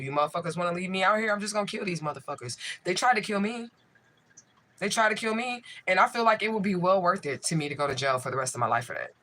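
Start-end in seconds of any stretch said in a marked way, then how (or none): 0.0-7.0 rising, higher, fast furious shouting; real furious outburst. Real, not acted. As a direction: raw anger boiling over at the people chasing her. Furious outburst at police, enemies.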